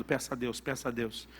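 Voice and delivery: soft echo of a father's advice; soft remembered voice. Retold or imitated. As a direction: murmur it like a memory echoing. Father's remembered voice in son's head.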